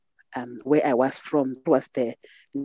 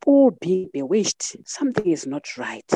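puzzled questioning; 5 semitones higher than usual. Retold or imitated. Woman retelling her thoughts on women being bewitched, puzzled. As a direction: voice a growing suspicion, pitched up.

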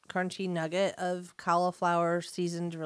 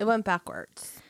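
whisper; 2 semitones higher than usual. Real, not acted. Aside while partner speaks.

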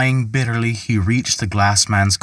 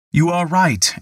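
Peter's reply pitched higher; 8 semitones higher than usual. A narrator's reading. Peter answers Michael, clearly higher than the narration. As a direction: lift the voice on right. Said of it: "answered Peter".

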